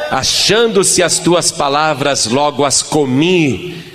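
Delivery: slow, deliberate reading of "Achando-se as tuas palavras"; measured scripture recital. Shown as a demonstration. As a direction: read the verse slowly and carefully. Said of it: "no versículo dezesseis".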